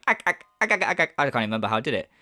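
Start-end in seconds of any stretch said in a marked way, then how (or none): 0.0-1.1 rapid-fire "ack ack ack" burst; quick machine-gun "ack" laugh; imitated own fake laugh. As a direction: rattle off a mechanical mock laugh. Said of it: "I guess I just went".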